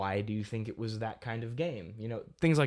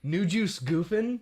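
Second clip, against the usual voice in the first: amused disbelief; 7 semitones higher, 4 dB louder, slower than usual. Real, not acted. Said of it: "That's the name?".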